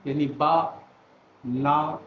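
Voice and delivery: chin-drop syllable demo. Shown as a demonstration. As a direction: tap out बा, ना one beat each. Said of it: "तीन syllables हैं".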